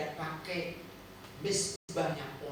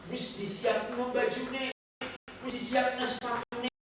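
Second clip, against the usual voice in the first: higher, slow scolding wife's nag in Ngapak Javanese; nagging in Ngapak Javanese; 7 semitones higher than usual. Retold or imitated. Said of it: "Bahasa ngapak begitu ya".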